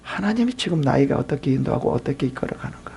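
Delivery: ordinary talk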